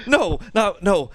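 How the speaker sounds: imitating a shocked viewer saying no; mock dismay. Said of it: "he's like".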